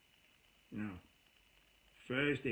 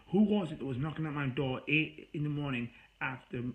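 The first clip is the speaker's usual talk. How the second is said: louder, heated accusations; retold angry rant; 3 semitones higher, 3 dB louder than usual. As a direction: list everything she did, getting worked up. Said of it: "I was pissed with her".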